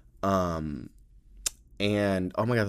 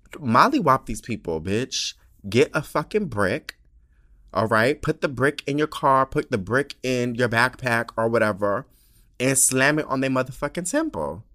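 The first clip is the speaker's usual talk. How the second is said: fired-up rant; 5 semitones higher, 5 dB louder than usual. Real, not acted. Fired-up violent advice rant.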